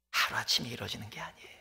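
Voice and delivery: urgent unvoiced whisper. Real, not acted. Preacher whispering the lesson of faith to the congregation. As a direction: breathe the truth to them.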